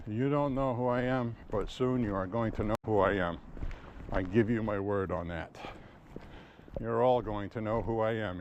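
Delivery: lightly put-on Middle Eastern accent, retold threat; imitating a Middle Eastern accent, menacing but understated. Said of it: "in a Middle Eastern accent".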